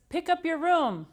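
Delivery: a hint of a mother's nag; nagging mom. The speaker imitating his mom's nagging, mildly. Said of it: "She's always says".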